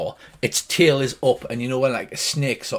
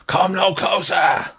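manticore's warning; 2 semitones higher than usual. Acted. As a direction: draw out the threat as a beast guarding its young. GM voices the threatened manticore.

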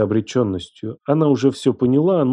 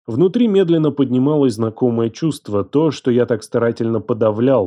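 usual speaking voice

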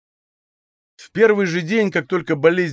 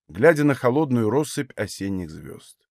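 plain reading voice

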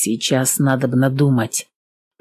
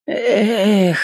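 sigh; 5 semitones higher than usual. A narrator's reading. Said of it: "вздохнул он".

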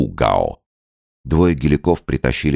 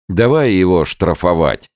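loud, high call; crowd shouting; 7 semitones higher, 5 dB louder than usual. A narrator's reading. Villagers demand Gao be fined, loud shout. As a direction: demand the fine at the top of voice. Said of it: "закричали гелики".

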